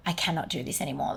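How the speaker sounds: soft, broken, close to tears; quiet tearful. Retold or imitated. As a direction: tell husband Will she cannot go on, tearful. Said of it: "going home in tears".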